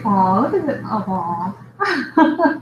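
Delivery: cooing aw. Shown as a demonstration. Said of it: "You just have to say".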